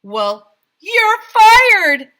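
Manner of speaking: very loud, high shout; mayor bellowing you're fired; bellowed firing. A narrator's reading. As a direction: fire her with gusto. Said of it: "said Mayor Hubble".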